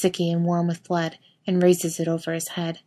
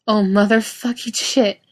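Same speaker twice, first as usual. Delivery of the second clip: panicked; 4 semitones higher, 4 dB louder than usual. A narrator's reading. Finding blood on friend.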